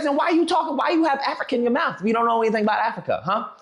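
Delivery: fast, pressing; quick heated comeback; rapid indignant retort. Retold or imitated. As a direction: fire questions back. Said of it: "I was like".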